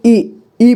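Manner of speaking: quick, short ई as in छोटी ई; short vowel ई. Shown as a demonstration. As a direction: say ई briefly, cutting the vowel short. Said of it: "ई को कम समय में उच्चारण किया जाता".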